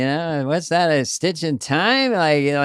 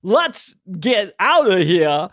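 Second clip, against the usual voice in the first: slow, lightly voiced Walken; a hint of Christopher Walken, slow; Walken impression; 3 semitones higher, slower than usual. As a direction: ease into a drawn-out Walken line. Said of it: "he would always say".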